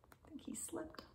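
hushed whisper. Acted. Reader whispering to children about the owl. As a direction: lean in and whisper.

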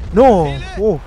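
very loud high "no"; anguished shout. Real, not acted. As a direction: cry out as the shell lands. Unit hit by mortar. (grito desesperado)

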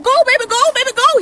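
cheering. Retold or imitated. Cheering the little guy on.

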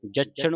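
ਜਛਣ with a tight, doubled ਛ; tightened consonant. Shown as a demonstration. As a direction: squeeze the ਛ in ਜਛਣ. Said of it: "ਕਸ ਕੇ". (ਜਛਣ ਕਸ ਕੇ)

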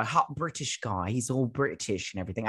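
half-hearted British accent. Shown as a demonstration. Reviewer introducing the hot new boy, in a shaky attempt at a British accent. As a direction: put on a rough British accent. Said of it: "I don't know if I'm doing the right, like, right accent".

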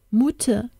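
high, fading feverish call; wailing. A narrator's reading. Feverish boy calling for his mother, fading wail. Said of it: "klang es jammernd durch den Raum".

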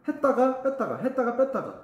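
lilting high on "했다가", easing off on "뺐다가"; alternating strong and soft. Shown as a demonstration. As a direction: swing between push on "했다가" and release on "뺐다가". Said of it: "강약 조절".

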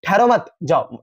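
"ठहरो मत" together, then a comma pause, then "जाओ"; pause after मत. Shown as a demonstration. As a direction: break after मत, leave जाओ on its own. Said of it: "यहाँ पे ऐसे लगा दिए".

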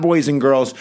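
high, loud rallying call to the class; excited. Real, not acted. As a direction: fire the class up for the fight. Teacher hypes up the coming fight.

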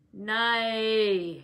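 put-on old servant snarling through his nose, loud; nasal snarl. A narrator's reading. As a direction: bark the "Nay" through the nose. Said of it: "he snarled, or rather screamed through his nose".

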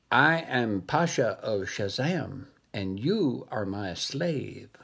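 lightly voiced monkey, slow and sinister; slow menacing monkey. Monkey announcing himself to the dog, slow and menacing. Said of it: "And then he said".

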